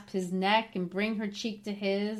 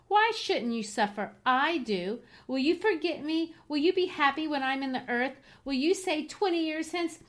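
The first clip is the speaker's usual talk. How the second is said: higher, bitter reproach in questions; wounded, bitter dying lover; 4 semitones higher than usual. Acted. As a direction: taunt him bitterly. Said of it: "she continued bitterly".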